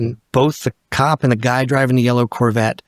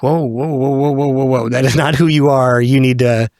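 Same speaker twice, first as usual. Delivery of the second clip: talking oneself down. Retold or imitated. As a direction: run of whoas building firmer. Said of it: "And then I'm like".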